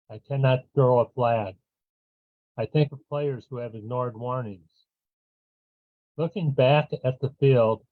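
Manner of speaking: measured poetry reading with long pauses; poem reading. Acted. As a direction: read it line by line, pausing after each. Reads own poem aloud.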